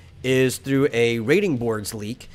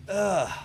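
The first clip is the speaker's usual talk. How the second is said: disgusted groan; 8 semitones higher than usual. Real, not acted. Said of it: "I'm bleeding".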